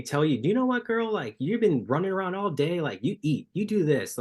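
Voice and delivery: high, animated mock crew voice; retold urging. Crew telling the runner's wife to look after herself, imitated high urging. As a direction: pitch it way up, imitating an insistent friend.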